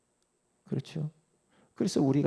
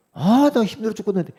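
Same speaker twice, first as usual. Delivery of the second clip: higher, louder grumble of a tired believer; mock whiny complaint; 13 semitones higher, 9 dB louder than usual. Preacher mimics a grumbling believer, whiny complaint. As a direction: whine it like someone put upon.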